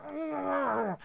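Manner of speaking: long, high strained groan; stifled groan of someone with scalding fingers; mock pained groan. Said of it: "You can hear the singeing of his fingers".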